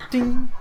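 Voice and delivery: high, loud ding; imitated ding. Game master voices the one-handed plant, high ding.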